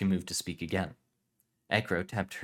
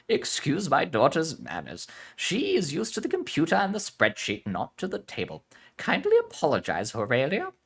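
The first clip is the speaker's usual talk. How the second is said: put-on Spanish accent; 8 semitones higher, 5 dB louder than usual. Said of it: "Unlike her mother ... Spanish heritage".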